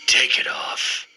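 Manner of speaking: slow eerie whisper. Retold or imitated. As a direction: breathe it out slowly. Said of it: "He whispered".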